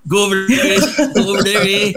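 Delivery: playful Mexican-American accent impression; mock Mexican-accented English; imitated Mexican accent. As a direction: mimic dubbed Filipino lines with a Mexican accent. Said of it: "they sound Mexicans. They're, it's like".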